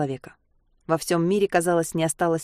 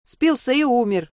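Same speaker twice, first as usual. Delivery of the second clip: shouted; 6 semitones higher, slower than usual. A narrator's reading. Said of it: "выкрикнула мать".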